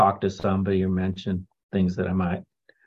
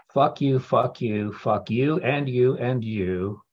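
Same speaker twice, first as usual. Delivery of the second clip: a mildly raised, fast-then-slow mock tirade, a touch higher; retold angry outburst; 3 semitones higher, slower than usual. Telling the room he snapped at members, a mild retold fury. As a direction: replay the old anger without truly shouting. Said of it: "'Cause I was really angry".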